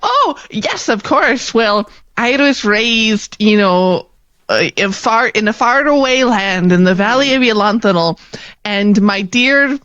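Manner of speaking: lightly voiced earnest young performer; sweet storybook contestant. Contestant telling the audience about her parents, earnest. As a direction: gush a little, then recite quickly.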